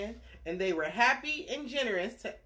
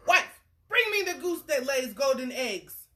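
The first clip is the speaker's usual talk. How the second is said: giant; 5 semitones higher, 5 dB louder than usual. Acted. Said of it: "said the giant".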